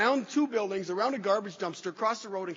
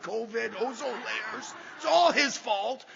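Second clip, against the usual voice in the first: mock rant; slower than usual. Mock rant blaming his boss.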